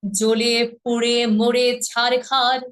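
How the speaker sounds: slow, measured poetry recital with long pauses; poem recitation. Shown as a demonstration. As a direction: recite the poem line by line, unhurried.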